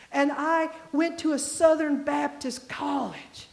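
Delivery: slow, deliberate Southern drawl; articulated Southern accent. Retold or imitated. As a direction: imitate a Southerner, stretching each word out. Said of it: "very deep, articulated Southern accent".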